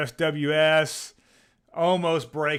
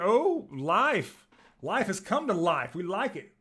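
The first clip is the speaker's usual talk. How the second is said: embarrassing dad joke; 4 semitones higher, slower than usual. Real, not acted. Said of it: "That's such a dad joke".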